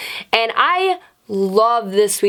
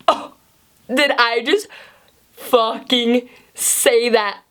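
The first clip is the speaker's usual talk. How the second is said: halting, drawn-out words with long gaps; mortified realisation; slower than usual. Retold or imitated. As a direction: replay the moment it dawns on you, slowly. Replays mortified realisation before teacher.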